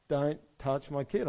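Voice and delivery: acted parental anger, spaced-out words; protective anger. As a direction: warn someone off your child, firmly. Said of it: "Now I'm getting angry".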